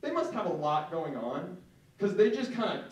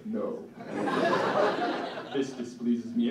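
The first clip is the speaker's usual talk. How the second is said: cold disdain; 4 semitones lower than usual. Retold or imitated. Coldly rejecting the offered bun.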